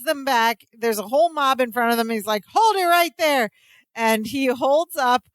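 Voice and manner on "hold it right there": mock commanding shout. Larry stopping mob.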